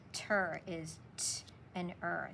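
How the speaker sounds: ter split into t and er; sounding out. Shown as a demonstration. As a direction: break ter into t and er. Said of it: "A W A that makes that aw sound".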